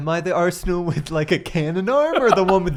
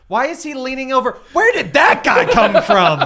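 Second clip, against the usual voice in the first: puzzled Harley; 5 semitones higher than usual. Retold or imitated. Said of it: "picturing Harley looking at this going".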